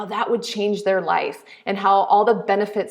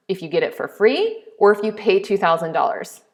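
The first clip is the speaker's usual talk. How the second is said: ordinary talk, nothing marked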